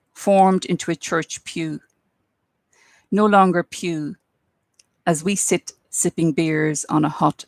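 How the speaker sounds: measured poem reading with long pauses between phrases; poetry reading. Acted. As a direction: let each image stand alone, unhurried. Reads second poem aloud.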